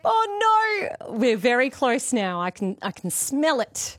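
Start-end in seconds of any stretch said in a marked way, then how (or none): 0.0-1.1 high, loudish wail of dismay; playfully anguished cry. Real, not acted. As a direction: wail it high, as if the game will never end. Another wrong answer.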